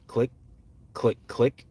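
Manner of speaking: three crisp mouth clicks like a revolver hammer; mimicking a pistol cocking; imitated hammer clicks. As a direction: tick out each click sharply. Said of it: "it makes three distinctive clicks".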